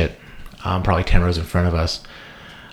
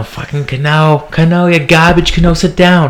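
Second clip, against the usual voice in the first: high-pitched New York heckle; worst New York accent; 8 semitones higher than usual. Retold or imitated. Comedian friend jeering the fan's jersey, worst New York accent. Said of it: "in his worst New York accent".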